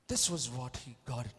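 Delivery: normal talking voice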